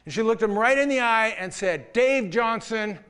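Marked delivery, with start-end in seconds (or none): 1.9-3.0 over-the-top. Retold or imitated. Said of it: "incredibly demonstrative, over-the-top way".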